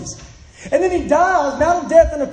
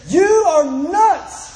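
a hint of a raised, higher voice, slow start; mock shout; 4 semitones higher than usual. Governor Festus rebuking Paul for his preaching, in a mild mock shout. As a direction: call him crazy, half-shouting. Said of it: "loud voice, he speaks up and says".

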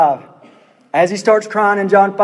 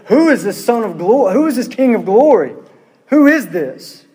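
lightly acted, quicker urgent questioning; astonished angels; 3 semitones higher than usual. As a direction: call it out like angels peering over a wall. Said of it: "they come running up to the battlement".

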